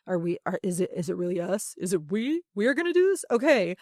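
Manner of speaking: a mock-amazed student's rising disbelief; incredulous student. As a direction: play the kid who can't believe it's "we". Student surprised at being included.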